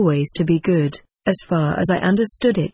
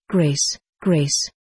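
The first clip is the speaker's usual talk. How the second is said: moaned plea; 3 semitones lower than usual. A narrator's reading. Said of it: "I moaned".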